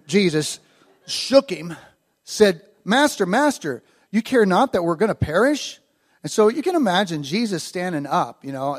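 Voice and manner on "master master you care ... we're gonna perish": raised-pitch urgent plea; mock-panicked appeal to wake someone; freaking out. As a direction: act out an alarmed, pleading disciple. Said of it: "they're freaking out".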